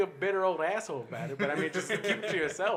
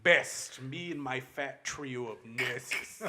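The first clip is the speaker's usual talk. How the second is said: pompous actor voice; 3 dB louder, slower than usual. Retold or imitated. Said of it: "They're like".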